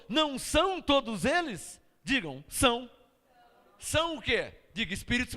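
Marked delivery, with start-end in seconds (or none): 0.1-1.8 loud rhetorical question on são. Shown as a demonstration. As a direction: ask it back to the crowd. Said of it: "Paulo perguntou". (pergunta retórica em voz alta)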